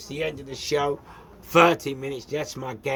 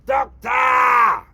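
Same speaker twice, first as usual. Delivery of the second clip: shouting at the top of his lungs; desperate full-voice shouts for the doctor; screaming for the doctor; 8 semitones higher, 7 dB louder, much slower than usual. Retold or imitated. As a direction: yell it as loud as you can across reception. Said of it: "So I'm screaming, yeah, at the top of my voice".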